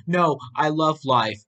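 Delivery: fearful. A narrator's reading. Boy answers the possessed old man, fearful. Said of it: "D J answered in fear".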